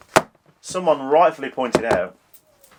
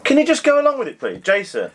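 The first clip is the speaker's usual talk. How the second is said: whiny high plea; high-pitched plea; 10 semitones higher, faster than usual. Acted. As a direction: beg him to play along, pitched up. Pleading with friend to play along.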